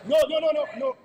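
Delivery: loud exasperated no; loud refusal. Real, not acted. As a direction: shout them down, flatly refusing. Rejecting the situation in the chamber.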